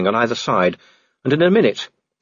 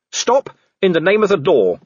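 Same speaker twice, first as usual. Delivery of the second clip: commanding challenge; 8 semitones higher than usual. Acted. Policeman challenges a werewolf with badge.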